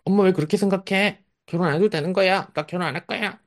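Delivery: put-on high, whiny teen voice; middle schooler. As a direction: plead with mom like a defiant adolescent. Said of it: "중학생인 거예요, 중학생".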